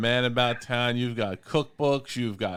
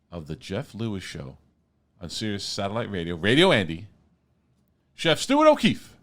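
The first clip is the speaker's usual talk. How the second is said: announcer intro. Acted. Host to listeners, introducing the chef with announcer flair. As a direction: hype up the guest like a showman.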